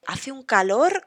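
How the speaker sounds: hace un calor with calor rising at the end; emphatic rising tune on calor; rising intonation. Shown as a demonstration. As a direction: let calor lift upward. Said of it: "con la entonación hacia arriba".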